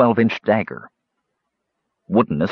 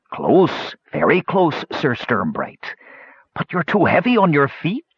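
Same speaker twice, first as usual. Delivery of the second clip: understated gloating amusement; chortling; 5 semitones higher than usual. Acted. Crazed king mocking the knight's missed blow, mildly chortling. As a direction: taunt with a touch of a chuckle.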